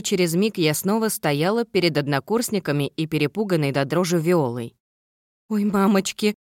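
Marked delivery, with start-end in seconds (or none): 5.5-6.3 squeaky toy voice. Acted. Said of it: "пропищала она".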